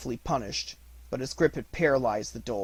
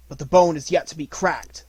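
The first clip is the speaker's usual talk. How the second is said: called out; 4 semitones higher, 9 dB louder than usual. A narrator's reading. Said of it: "said Mowgli".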